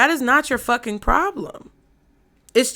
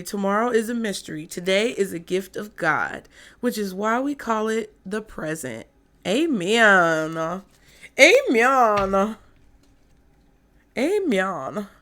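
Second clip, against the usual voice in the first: put-on Valley girl voice. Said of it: "In my white Valley girl voice".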